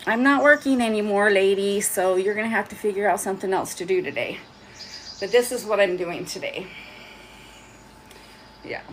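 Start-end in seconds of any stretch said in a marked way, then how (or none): 0.1-4.4 lightly voiced sassy phone; hint of a complaining gadget. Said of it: "we don't want my phone saying".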